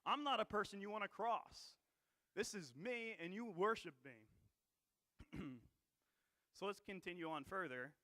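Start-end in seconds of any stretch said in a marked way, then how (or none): 0.0-4.3 a louder, swaggering king declaring himself; proud king. Retold or imitated. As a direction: boom it out like a tyrant demanding worship. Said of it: "he's saying".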